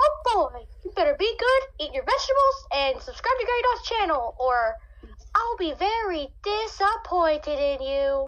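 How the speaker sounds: high animated cartoon mouse character voice. Speaker brings Mickey Mouse out of the closet to address the viewers: Mickey Mouse voice. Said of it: "Let me go get Mickey Mouse out of my closet. He has something to say".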